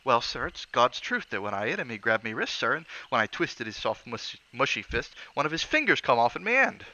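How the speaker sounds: Cockney lad telling a horror; horrified Cockney bellboy. Acted. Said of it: "loathing and horror of Thomas' face".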